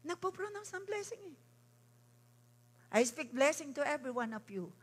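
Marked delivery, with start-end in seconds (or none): 0.0-1.4 put-on higher, softer childlike voice; a light hint of a child's voice; mock child. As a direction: imitate a little child declaring. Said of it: "Kahit yung isang batang magdeklara".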